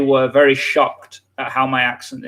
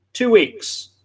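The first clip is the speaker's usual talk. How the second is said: "Two" said high and hit hard; stress on two; 7 semitones higher than usual. Real, not acted. Repeating to Mark how fast it happened, "Two" raised. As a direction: punch "Two" in "Two weeks".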